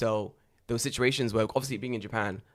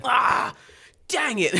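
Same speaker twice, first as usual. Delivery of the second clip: high, louder, hammed-up disappointed groan; mock dismay; 14 semitones higher, 8 dB louder, much slower than usual. The hungry guy finding McDonald's shut, high mock dismay. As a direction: play the foiled guy, cartoonishly high. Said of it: "He's like".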